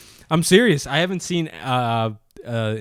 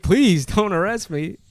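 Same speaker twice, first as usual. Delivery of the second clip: mock pleading; 5 semitones higher, slower than usual. Acts nervous driver begging cop.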